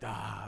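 soft, low "ah" of letdown; deflated sigh. Retold or imitated. Retelling hearing about the entry fee, deflated sigh. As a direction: let the excitement drain out in a low sigh. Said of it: "the excitement starts to go down".

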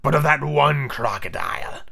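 slow, emphatic villain; drawn-out pirate chief; correcting captain. Acted. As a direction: stretch the correction out. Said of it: "who corrected him".

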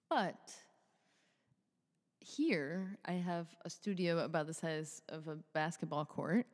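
echoey big room; reverb. Real, not acted. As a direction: voice ringing in a large studio. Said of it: "you can probably hear the reverb happening".

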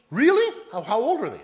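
excited wife. Acted. Wife perks up at player gossip.

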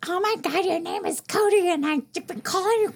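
high-pitched imitation of an appalled neighbor; retold dismay. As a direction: gush the apology way up high.

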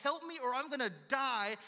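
urgent, acted plea for help; desperate cry. Preacher paraphrases David crying to God, desperate. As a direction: plead as if life depends on it. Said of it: "like this desperate cry".

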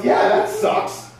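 slow, breathy whispered agreement; voicelessly commiserating; mock gloomy mutter. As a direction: sigh it out slowly like a sulking friend. Friend joins in the complaining.

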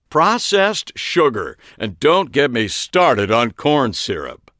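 high, slow, loud pronouncing; slow emphatic lecture. A narrator's reading. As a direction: preach about sugar slowly. Ariana preaches on sugar.

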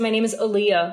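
Aliyah said like the American singer; anglicized Aliyah. Retold or imitated. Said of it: "made it not political".

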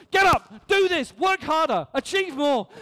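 acted harsh drill orders; barked demands. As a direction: fire off commands, easing after the first shout. Voicing the morning's demands on people.

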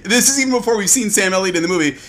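high, loud laughing talk. Real, not acted. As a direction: laugh through the words. Laughing while telling her note.

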